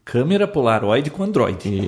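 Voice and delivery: rattled off quickly as a tongue twister; said fast in one breath. Pretend. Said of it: "fala rápido".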